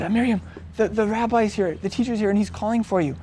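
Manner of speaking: softly, as if taking someone aside; quiet aside. Retold or imitated. Martha quietly tells Miriam the teacher is calling.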